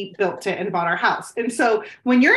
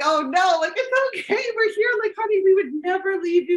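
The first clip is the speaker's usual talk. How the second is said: soothing mom; 4 semitones higher than usual. Retold or imitated. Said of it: "I'm like".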